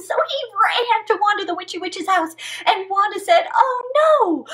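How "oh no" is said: high shout of dismay; witch cries out. Acted. Witch shocked by the barking frog.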